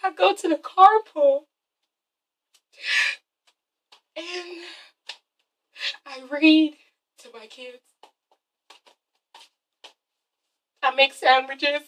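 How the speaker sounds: soft, halting, small voice; mock meek mom. Vlogger imitating Kim describing her dull routine, softly. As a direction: list your life sadly and quietly. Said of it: "And she's like".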